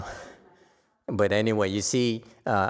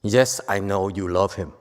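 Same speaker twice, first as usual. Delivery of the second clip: soothing acknowledgment; 3 semitones lower than usual. Shown as a demonstration. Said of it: "we acknowledge people's emotions".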